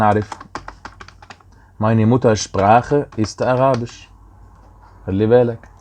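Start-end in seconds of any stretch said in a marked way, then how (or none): 1.8-4.0 slow demo. Shown as a demonstration. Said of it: "teacher models German sentence".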